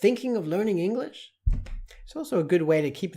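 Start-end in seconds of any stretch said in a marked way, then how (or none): 0.0-1.3 high, upbeat advert question. Shown as a demonstration. Teacher showing the short ad version in a light ad voice. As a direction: pitch it like a catchy ad line. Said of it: "you could just say".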